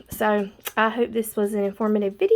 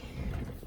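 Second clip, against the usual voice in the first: heavy sigh out of breath; breathless sigh; 14 dB quieter than usual. Real, not acted. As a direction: let out a tired, breathy sigh. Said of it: "I'm out of breath".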